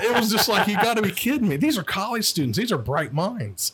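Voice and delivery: high, laughing mock disbelief. Real, not acted. Cop laughing about arresting college students. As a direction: laugh while mocking the students.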